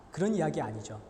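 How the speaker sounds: ordinary talk, nothing marked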